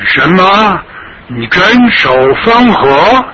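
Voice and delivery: a high, incredulous foreign invader; scornful disbelief. Acted. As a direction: sneer at the old man's claim. Foreigner mocks the old man.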